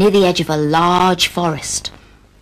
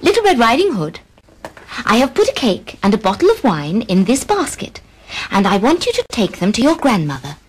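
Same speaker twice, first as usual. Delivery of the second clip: mother voice; 3 semitones higher than usual. Acted. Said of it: "mother called her and said".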